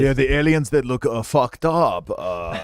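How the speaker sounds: slow, hesitant mock Asian accent; a hint of a hammed-up Asian accent; bad Asian accent. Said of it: "it's like a bad Asian accent".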